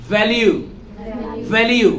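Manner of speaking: "ভ্যালু" as val-yoo, with English v. Shown as a demonstration. Teacher drilling V, "ভ্যালু" with a buzzed v. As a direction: lip on teeth to start "ভ্যালু". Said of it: "ভিও একই রকম উচ্চারণ করবো".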